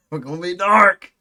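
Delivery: hammed-up bro swagger; mock cocky bro, laughing. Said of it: "I was like".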